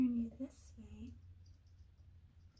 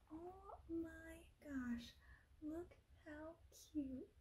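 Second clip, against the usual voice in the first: usual speaking voice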